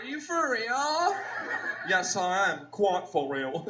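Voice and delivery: lightly voiced posh exchange; mock incredulous reply. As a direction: act out a stunned girl. Acts out a girl's reply.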